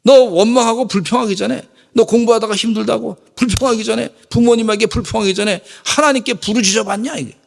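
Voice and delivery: preacher voicing God challenging complainers; God rebuking. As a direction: press the listener with each question. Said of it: "이러시는 것 같아".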